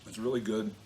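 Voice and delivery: talking while chewing; words round a bite of food; mouth full. Real, not acted. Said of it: "trying to talk with my mouth full here".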